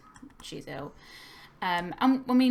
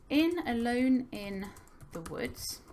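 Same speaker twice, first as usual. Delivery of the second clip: slow dictation; 4 semitones higher, slower than usual. Shown as a demonstration. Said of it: "So I'm gonna say".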